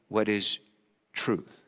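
a hushed, hopeful wondering about truth. Acted. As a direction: ask it as if hoping for an answer. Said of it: "a part of me maybe said it in hope".

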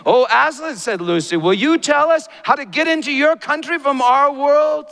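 put-on high, loud child pleading; girl's eager voice. Lucy asking Aslan the way home, high and eager. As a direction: ask sweetly like a hopeful little girl.

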